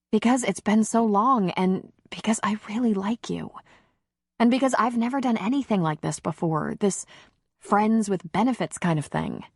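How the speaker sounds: nervous woman. Acted.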